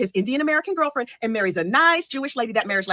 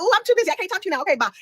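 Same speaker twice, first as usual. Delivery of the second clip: brush-off voice; 10 semitones higher, faster than usual. Retold or imitated. Brushing off family on phone.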